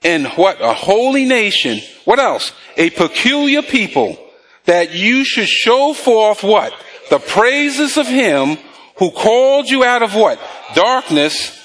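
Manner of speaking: slow, measured Bible reading; preacher's drawn-out read-along; scripture reading. Real, not acted. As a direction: read verses out deliberately for the congregation to follow. Reads scripture aloud to congregation.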